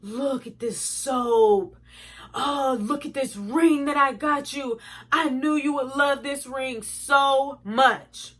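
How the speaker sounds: slow, drawn-out mock admiration; stalling. Imitating boyfriend showing off gifts to buy time, mock stalling. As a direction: stretch each phrase out to play for time. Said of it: "it's like he's stalling".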